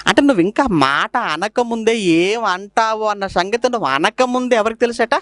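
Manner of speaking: usual speaking voice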